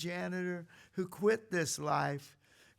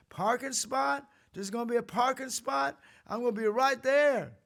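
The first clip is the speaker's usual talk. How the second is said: higher, louder, eager cry; excited mock shout; 7 semitones higher, 6 dB louder than usual. Preacher imitating a pushy driver grabbing the spot, mock excited. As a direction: jump on it like a greedy driver. Mocking eager loud crowd.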